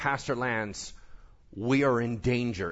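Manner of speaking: ordinary talk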